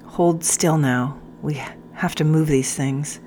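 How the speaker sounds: calm her as you work; gentle instruction. Acted. Sergeant tends wounds gently.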